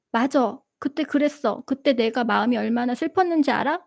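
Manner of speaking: ordinary talk, nothing marked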